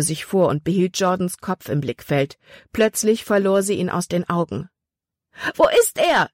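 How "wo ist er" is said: loud, high cry of alarm; panicked scream. A narrator's reading. Libby loses sight of Jordan, panicked scream. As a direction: shout it out in panic, pitch leaping up. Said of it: "schrie sie".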